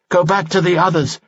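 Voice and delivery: a knight ordering his companion to retreat, commanding. A narrator's reading. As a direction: order him back to the others. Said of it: "Guy commanded Stintos".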